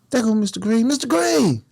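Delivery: high-pitched call across the yard; mild mock hail across the walkway. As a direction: call out to Mister Green. Calling out to the guard.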